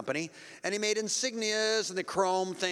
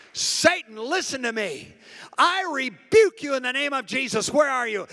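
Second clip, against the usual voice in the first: rebuking shout; 5 semitones higher, 5 dB louder than usual. Retold or imitated. Translating the preacher's rebuke.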